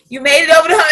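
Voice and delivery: pushed harder the second time. Shown as a demonstration.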